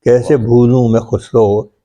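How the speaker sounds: measured, metrical mushaira delivery; poetry recitation. Acted. Poet shares his ghazal with appreciative friends, reciting. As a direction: recite each line in rhythm, repeating it for the listeners.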